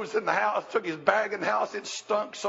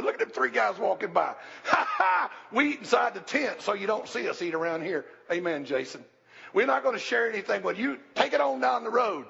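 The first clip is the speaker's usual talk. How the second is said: mock snooty; 4 semitones higher than usual. Mocking inhospitable Abraham.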